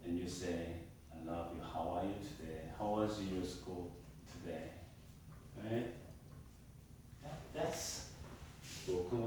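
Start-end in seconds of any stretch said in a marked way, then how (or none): 1.1-4.7 put-on soft, low greeting to a child; gentle parent. Shown as a demonstration. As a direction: speak tenderly and quietly to your kid. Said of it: "voice tone".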